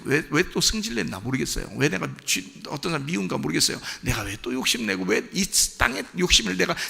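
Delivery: soft, subdued confession; apologetic prayer. Acted. Sinner apologizing to the Lord, soft and contrite. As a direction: confess quietly, almost to oneself. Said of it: "하면서 그냥 따라가시면".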